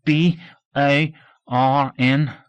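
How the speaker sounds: each letter spelled out slowly and deliberately; dragging letters one by one; slow spelling. Acted. Pupil spells word slowly.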